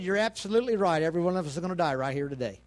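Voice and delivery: rapid-fire, falling in pitch; fast mock agreement, tailing down; imagined defeated Moses. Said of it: "Moses turned around and said".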